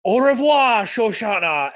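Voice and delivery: high, loud sing-song farewell; imitating a smug villain's goodbye; Hans Landa impression. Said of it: "And he just goes".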